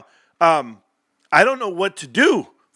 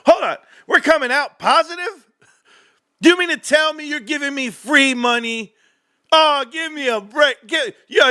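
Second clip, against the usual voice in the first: disbelief; 7 semitones higher than usual. Real, not acted. Disbelief at free money.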